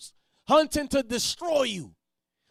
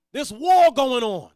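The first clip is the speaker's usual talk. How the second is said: loud slow preaching; 7 dB louder than usual. Real, not acted.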